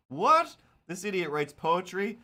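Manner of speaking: high, loud "What?" then scoffing; a shocked heckle from a character; mock disbelief. Ted scoffs at the host's poetry, high and loud.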